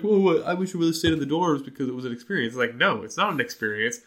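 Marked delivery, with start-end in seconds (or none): 0.0-2.5 lightly mocking sing-song voice, a bit fast; mocking people. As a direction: parody the know-it-all advice. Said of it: "people are like".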